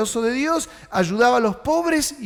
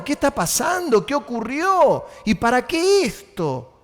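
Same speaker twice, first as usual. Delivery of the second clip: higher, questioning alarm; mock alarm; 5 semitones higher than usual. Religious brothers questioning Pedro, lightly alarmed. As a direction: demand answers, half-alarmed. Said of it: "lo citaron".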